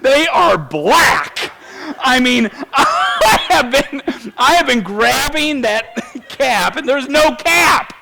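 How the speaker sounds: can't stop laughing at himself; laughing through it. Real, not acted. Preacher tells congregation his hands were black, laughing. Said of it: "laughing at own black hands".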